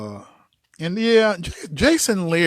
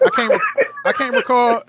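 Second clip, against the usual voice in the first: straining to remember. Real, not acted. To his friend, failing to recall the actor, in a high strained voice. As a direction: voice jumps high, straining for the name.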